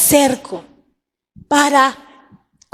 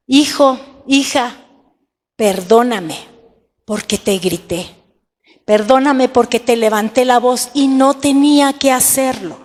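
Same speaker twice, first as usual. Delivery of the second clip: disculpa humilde. Shown as a demonstration. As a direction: apologize gently, with no excuses. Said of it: "Hasta ahí todo está bien". (disculpa sincera y suave, sin excusas)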